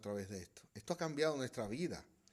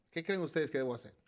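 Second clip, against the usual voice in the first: ordinary talk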